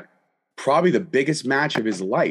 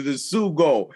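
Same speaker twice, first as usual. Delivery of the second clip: Clemenza; slower than usual. Acted. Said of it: "The scene where Clemenza is teaching".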